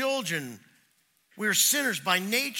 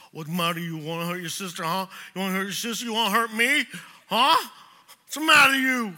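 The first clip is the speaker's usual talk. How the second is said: building to a loud, higher scold; angry father; 3 semitones higher, 6 dB louder, faster than usual. Retold or imitated. Dad scolding the daughter who bit her sister, rising to a shout. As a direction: start sharp and build into a yell. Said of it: "I'm like".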